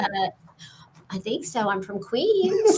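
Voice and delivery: put-on slow Queens New York accent. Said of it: "I went".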